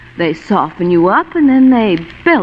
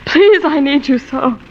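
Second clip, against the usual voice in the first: desperate pleading; 5 semitones higher than usual. Acted. Wife pleads desperately with Marlowe.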